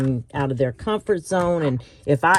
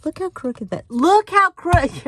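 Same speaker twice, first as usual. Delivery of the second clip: mock dismay; 13 semitones higher, 5 dB louder than usual. Real, not acted. Mocking her crooked cut.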